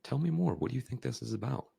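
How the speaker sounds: high, puzzled "huh" and curious questions; confused. Shown as a demonstration. Coach matching a confused kid, puzzled and inquisitive. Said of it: "If they're confused, I'm gonna go".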